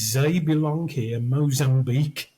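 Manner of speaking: hammed-up French accent, th as z; mocking French accent. Road crew mocks the actor with a T-shirt slogan, exaggerated French accent. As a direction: take the piss out of a French accent. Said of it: "to take the piss".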